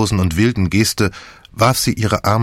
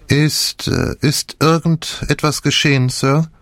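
higher, eager servant voice; a nosy maid, barely hiding excitement; 6 semitones higher, slower than usual. A narrator's reading. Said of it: "zitterten wie vor Aufregung".

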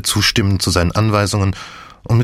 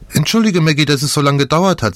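bright, higher cheerful call; clear and cheerful; 7 semitones higher than usual. A narrator's reading. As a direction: call out happily, unaware. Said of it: "klar und fröhlich".

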